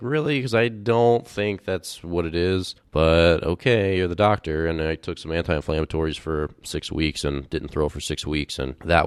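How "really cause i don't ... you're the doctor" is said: high incredulous "Really?", then slow and skeptical; mock polite disbelief; doubtful sarcasm. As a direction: act unconvinced by the doctor, drawn out. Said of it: "And I was like".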